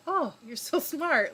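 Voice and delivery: high, gushing mock praise; playful sarcastic gush; mock admiring. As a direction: tease him with sugary admiration. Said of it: "And I was like".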